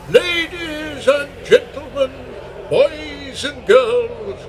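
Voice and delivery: grand entrance announcement. Acted. Compere announcing.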